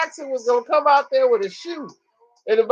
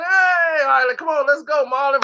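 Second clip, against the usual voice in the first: mock crowd cheer; 4 semitones higher than usual. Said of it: "Everybody cheering".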